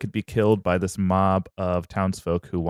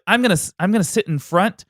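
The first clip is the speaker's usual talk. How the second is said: Phrixus voice; 7 semitones higher, faster than usual. Acted. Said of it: "and he's like".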